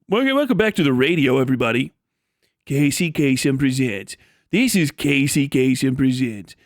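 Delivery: lightly voiced radio host intro; a hint of an old-school radio DJ; Casey Kasem radio voice. Streamer mimicking Casey Kasem's radio intro, lightly done. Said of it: "always used to talk like this".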